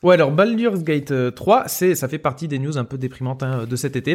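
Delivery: talking through a mouthful of cashews; chewing while speaking; mouth full. Real, not acted. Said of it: "avec la bouche pleine de noix de cajou".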